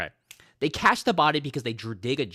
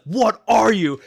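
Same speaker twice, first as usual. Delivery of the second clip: higher, louder, startled question; alarmed cry; 9 semitones higher, 11 dB louder, slower than usual. Retold or imitated. The commander facing the zombie horde, alarmed cry. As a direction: shriek it as the horde appears.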